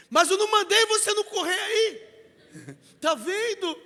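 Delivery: loud, fast scolding through laughter; laughing scold. Retold or imitated. Pastor retelling how he told off the fallen boy, laughing loudly. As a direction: tease the kid while cracking up.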